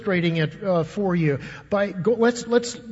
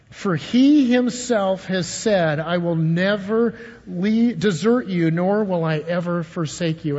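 slow, deliberate, every word weighed; slow scripture reading. Shown as a demonstration. Pastor leading the church through the verse, slow and deliberate. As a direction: read the verse slowly so they can follow. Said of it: "Read that with me".

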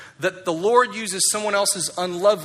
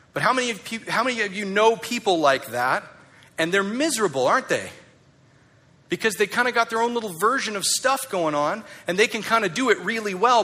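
fired up; 3 semitones higher than usual. Real, not acted. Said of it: "I got a little fired up there".

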